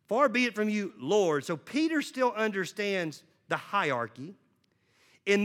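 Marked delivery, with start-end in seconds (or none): 0.1-1.4 Far lifted a little and pressed, quick; stress on Far. Shown as a demonstration. Pastor points congregation to Peter's words, stress on Far. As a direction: lean on Far in "Far be it from you". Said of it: "if you'll notice, he says".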